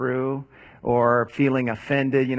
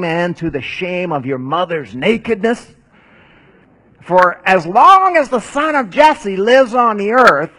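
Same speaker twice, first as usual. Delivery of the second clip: king raging at his son, loud and higher; angry Saul; 4 semitones higher, 4 dB louder than usual. Retold or imitated. King Saul berating his son Jonathan, raised and angry.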